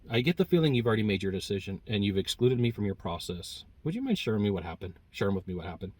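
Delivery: soft, polite question; very politely. Shown as a demonstration. Salesman politely asking the client what happened. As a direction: ask gently and politely. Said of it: "very politely".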